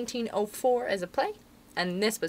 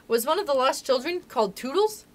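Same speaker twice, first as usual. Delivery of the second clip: put-on raised, hopeful child's question; eager cry; 7 semitones higher, 3 dB louder than usual. A narrator's reading. Toodles hoping to be in the story, eager. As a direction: ask it hoping for a yes. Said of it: "cried Toodles".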